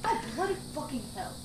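put-on British swearing; British accent. Shown as a demonstration. Friend trying out an accent on request, British accent. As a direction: curse like a Brit, lightly hammed. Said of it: "I was gonna do the Brit accent".

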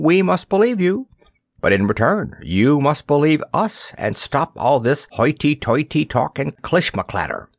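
high, cheerful cook scolding kindly; lightly voiced jovial cook; jolly ship's cook. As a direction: tease him out of his airs. Cook coaxing the boy.

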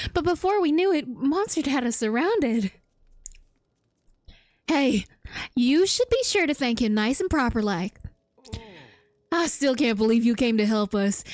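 put-on Southern US voice; southern accent. Rescued villager thanks the hero for saving them, southern accent. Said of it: "I started doing a southern accent".

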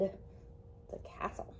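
awed little whisper. Acted. Librarian revealing the Norse god's castle to kids, awed whisper. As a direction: breathe it out like a secret.

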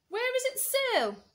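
high, loud screech; screeching parrot. Acted. Parrot answering George, screeching high. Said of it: "parrot screeched".

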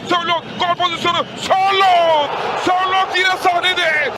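turkish football commentator. Real, not acted. Live goal chance commentary.

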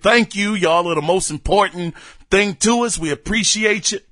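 talking through hiccups; hiccuping between words. Real, not acted. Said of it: "I'm hiccuping".

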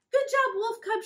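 very high, loud joyful praise; exclaimed. Acted. Big Wolf praising her cub, high and loud. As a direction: cheer your cub on. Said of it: "she exclaimed".

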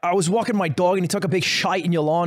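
a light put-on Scouse apology; mock apologetic Scouse; Scouse accent. The speaker apologizing to the woman, light Scouse accent.

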